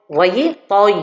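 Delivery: "toy" with the ya made heavy and dark; wrong emphatic ya. Shown as a demonstration. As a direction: darken the y of "toy". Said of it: "j'emphatise le ya".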